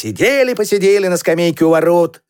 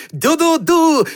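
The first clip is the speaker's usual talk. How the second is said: high steamship toot; high imitation horn call; shouted tooting; 9 semitones higher than usual. A narrator's reading. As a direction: toot like children playing steamship. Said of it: "и кричали".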